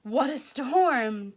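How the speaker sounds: high, loud storm cry; mole's exclamation. Acted. Mole arriving from the storm, high and loud. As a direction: squeal about the storm. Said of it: "Mole mutters".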